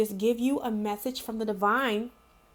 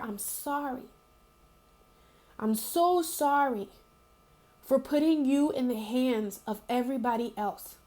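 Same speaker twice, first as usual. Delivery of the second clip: tender self-talk. Retold or imitated. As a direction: comfort yourself like a frightened girl in the mirror. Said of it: "I told her".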